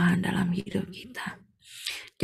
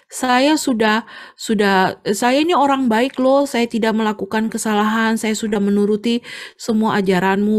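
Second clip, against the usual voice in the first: raised, aggrieved griping at God; mild angry complaint to God. Retold or imitated. Tofu seller grumbling at God over his ruined goods, mildly angry. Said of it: "dia marah-marah sama Tuhan".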